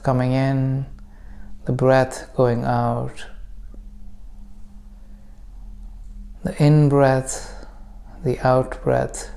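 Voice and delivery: calm meditation guide with long pauses; guided meditation. Acted. Teacher leading listeners into breath practice, calm guided meditation. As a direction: guide them gently, unhurried, leaving room to breathe.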